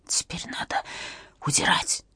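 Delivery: soft unvoiced whisper. A narrator's reading. Irina tells Katya to flee, whispered. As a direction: breathe it barely aloud. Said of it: "прошептала Ирина".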